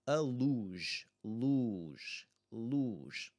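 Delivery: luge with a long, clear 'oo'; pronunciation demo. Shown as a demonstration. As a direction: model 'luge' slowly, one word at a time. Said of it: "U is really the sound".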